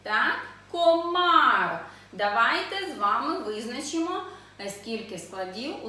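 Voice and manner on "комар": "Комар" higher and loud, both syllables full; reading aloud clearly. Shown as a demonstration. Teacher repeating the word for children, loud and clear. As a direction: sound out "Комар" firmly as one word. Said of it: "І читаємо".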